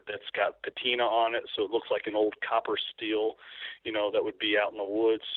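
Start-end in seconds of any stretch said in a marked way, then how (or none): 2.9-3.3 Kentucky accent on "steel", meaning still; real Kentucky vowel in "steel". Real, not acted. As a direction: let a Kentucky twang slip into "steel". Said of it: "let my Kentucky accent come out".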